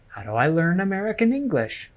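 "learn American English" stressed as the key words; stress on content words. Shown as a demonstration. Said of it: "Note that I stress the words".

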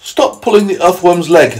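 high, loud ladybird telling-off; scolding ladybird. Acted. Ladybird telling off the centipede, high and loud. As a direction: order it high and firm. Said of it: "the ladybird said".

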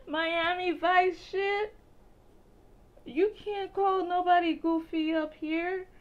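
high, loud, slow "no, no" protest; excited protest. Retold or imitated. Friend warning me not to say goofy, high and loud. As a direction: wave off the word like it's dangerous. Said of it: "And he said".

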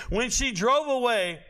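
laughing through the words; can't hold back a laugh while telling it. Real, not acted. Recalling the breakup to the audience, laughing.

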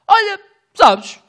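high, slow, dopey friend voice; imitating Neves. Neves dreamily telling the driver, high dopey voice. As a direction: play the clueless buddy, drawn out. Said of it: "o Neves só me diz".

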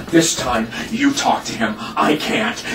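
low, subdued order; tired, low-pitched resignation; weary instruction. Acted. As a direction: drop the voice and hand it over. Father hands over, worn out.

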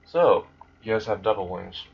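flat, uninterested monotone. Retold or imitated. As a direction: say it with no feeling at all. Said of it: "With his monotone voice".

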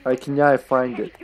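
tentative imitation of Scottish speech; attempted Scottish accent. Shown as a demonstration. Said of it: "try to imitate that".

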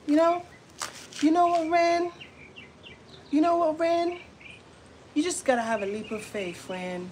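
a light put-on churchy girl voice; imitating that girl. Copying the girl to Ren, mild preachy tone. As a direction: preach gently like her. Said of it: "I can speak just like her".

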